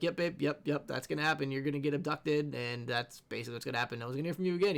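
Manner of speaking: low, quiet deadpan agreement; mock-serious teasing. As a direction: egg her on, playing along softly. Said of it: "being the boyfriend that's teasing her".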